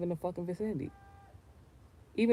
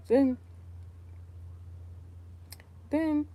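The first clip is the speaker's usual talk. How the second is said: exclaimed; 11 semitones higher than usual. Real, not acted. Rising outburst.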